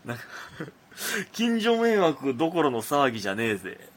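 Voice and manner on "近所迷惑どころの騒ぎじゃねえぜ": tough-guy letter voice. Retold or imitated. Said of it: "こんな口調の脅迫状".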